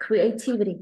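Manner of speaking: "Creativity" with the voice dropping at the end; falling word ending. Shown as a demonstration. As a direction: stress TIV in "Creativity", then let the last syllables fall. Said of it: "Em xuống giọng ở cuối từ đi".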